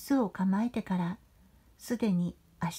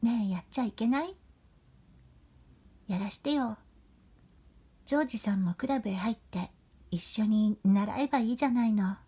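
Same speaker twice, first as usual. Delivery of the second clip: wheedling, cutesy pleading; coaxing sweet voice; faster than usual. Acted. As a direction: purr it out like a spoiled girl. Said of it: "急に甘ったれた猫なで声を出しながら".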